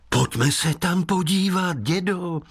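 lightly voiced eager boy; boy asking his grandpa; young boy. Boy Tadeáš voiced by narrator.

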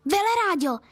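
outraged high call of the name; indignant cry. A narrator's reading. Girl shocked her diabetic friend eats ice cream, indignant cry. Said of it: "vykřikla jsem pohoršeně".

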